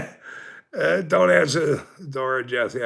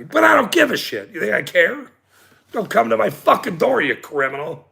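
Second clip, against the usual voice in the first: angry rant; 4 semitones higher than usual. Real, not acted. Re-ranting at the cop.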